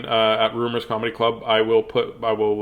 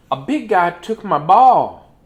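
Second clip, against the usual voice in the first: high, slow and loud Piggy complaining; high cartoon pig voice; 6 semitones higher, 6 dB louder, slower than usual. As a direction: wail it out as an upset pig. Reading Piggy's lines.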